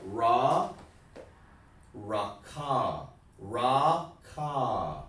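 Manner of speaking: ra and ka sounded out slowly as separate syllables; teacher modelling "raka" syllable by syllable. Shown as a demonstration. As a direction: say "raka" in two drawn-out open syllables, ra, ka. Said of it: "Listen how I'm sounding it".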